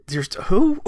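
high-pitched comic double take; stammer, then a squeaky question; baffled disbelief. Acted. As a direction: pitch it way up in mock confusion. Acting out baffled reply to sister.

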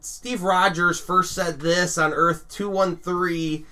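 slow, nitpicky superfan; nerd voice. Retold or imitated. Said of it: "Are you using a nerd voice right now?".

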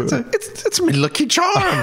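high, hammed-up Irish leprechaun voice; Irish accent. Cohost asks for the Irish accent, hammed-up Irish brogue. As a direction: ham up an Irish brogue like the cereal mascot. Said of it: "rip out your Irish accent again".

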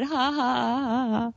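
deliberate spoken ha-ha laugh; acted laugh. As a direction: imitate the uncle laughing it off. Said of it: "And he said".

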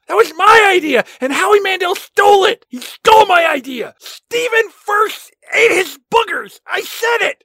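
mock angry rant. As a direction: rage like a slighted actor. Mock outburst about stolen idea.

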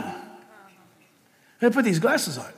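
hushed, deliberate retelling of the instruction; slow quiet repeat. Shown as a demonstration. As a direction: drop the voice and say "You gotta put these glasses on" slowly.

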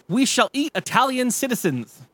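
high, hammed-up solemn declaration; a hint of a grand proclamation; lightly voiced friend. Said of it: "Friend number two says".

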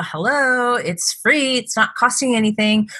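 a touch of snide scolding; judgmental. Retold or imitated. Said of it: "which is extremely judgmental".

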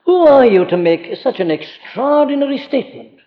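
awed, earnest question, rising in wonder; amazed reverence. Retold or imitated. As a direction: ask in humble amazement, not to dismiss him. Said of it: "You ask your question in amazement and in reverence".

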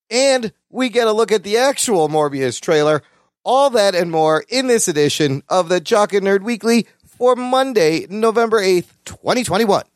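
measured announcer-style episode rundown; podcast intro read. Acted. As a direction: read out the show's headlines like a promo.

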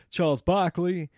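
a slow, half-hearted Barkley drawl; a weak hint of Barkley; bad Charles Barkley impression. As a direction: lightly mimic the basketball pundit. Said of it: "That was a terrible Charles impression".

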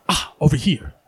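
whispered beckon; hushed invitation to the table. Acted. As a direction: whisper it, waving them over.

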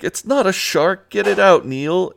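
high, loud frantic shouting; panicked yell. Retold or imitated. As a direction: shout at Neil to get rid of it. Boys panicking about the fish.

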